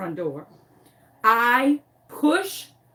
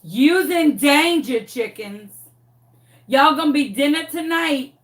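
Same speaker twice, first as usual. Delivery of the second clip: menacing dog voice; 4 semitones higher, 4 dB louder than usual. Retold or imitated. Dog eyeing the chickens, sassy threat. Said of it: "She was looking like".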